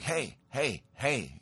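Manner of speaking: mildly wary, retold "hey"; hesitant calling. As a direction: call out cautiously, unsure who is there. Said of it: "now I'm a little bit, uh, hesitant".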